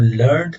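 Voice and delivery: लर्नड with a t sound after the n; लर्नड sounded like learnt; British learnt. Shown as a demonstration. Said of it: "non American English के अंदर".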